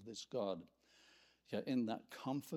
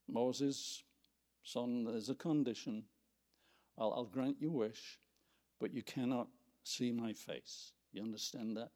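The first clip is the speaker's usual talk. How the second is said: gentle fatherly condition; 3 semitones lower than usual. Acted. The Lord granting Moses his wish, gentle fatherly firmness. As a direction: explain it tenderly, with small pauses.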